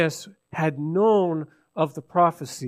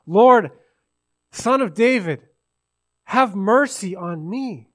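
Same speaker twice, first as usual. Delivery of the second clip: raised, slowing plea for mercy; crying out louder; 3 semitones higher, 5 dB louder than usual. Acted. Blind man has to get past the people, crying out. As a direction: call out past the crowd, high then easing. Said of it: "He's crying out louder".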